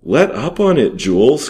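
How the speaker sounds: cried out. A narrator's reading. Second soldier crying out to his partner, loud and high. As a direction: cry out to stop the beating. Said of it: "cried the other at last".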